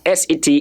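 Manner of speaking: "set" with no p sound before the t; silent P. Shown as a demonstration. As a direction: say "set" as one short syllable, like English set. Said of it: "is gonna be pronounced as set".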